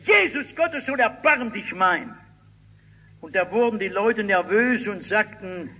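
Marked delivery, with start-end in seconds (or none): 0.0-2.2 desperate shouting. Acted. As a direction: call out desperately over the crowd. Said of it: "Und da fängt er an zu schreien".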